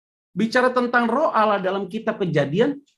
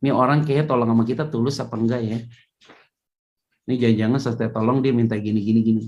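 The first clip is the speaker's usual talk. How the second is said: suspicious inner thoughts; 8 semitones lower, faster than usual. Retold or imitated. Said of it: "langsung kita pikirin".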